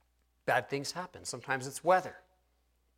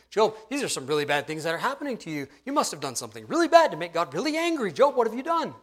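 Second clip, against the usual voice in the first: pressing accusation, rising higher and louder; accusing; 4 semitones higher, 3 dB louder, faster than usual. Retold or imitated. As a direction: build insistently to the final question. Friends accuse Job in acted quote.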